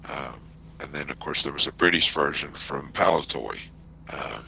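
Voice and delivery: muffled, like a bad connection. Real, not acted. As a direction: dull voice through a bad line. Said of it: "Your voice is, uh, a little muffled here".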